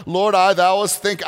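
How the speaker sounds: a touch of stiff, formal mock prayer; mock King James prayer. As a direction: ham up the old-fashioned prayer. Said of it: "You don't have to use King James".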